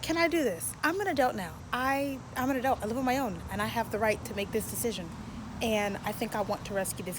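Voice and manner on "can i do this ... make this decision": self pep talk. Real, not acted. Psyching herself up.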